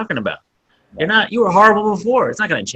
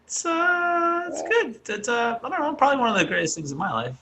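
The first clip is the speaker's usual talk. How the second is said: quiet sincere; 6 semitones higher, 9 dB quieter than usual. Real, not acted. Quiet sincere talk about dad.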